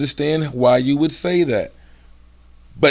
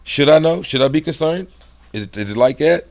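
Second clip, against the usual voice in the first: higher, bouncy rapid questions; energetic, hyper; 4 semitones higher, 3 dB louder than usual. Shown as a demonstration. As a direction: fire off questions with lifted pitch. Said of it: "They know I got energy".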